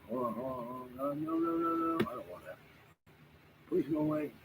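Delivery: sudden high, loud panicked pleas; pushing someone off in real alarm; real alarmed pleading. Real, not acted. Streamer suddenly fending off an unwanted intruder, alarmed and pleading loudly. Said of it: "wow, that was close".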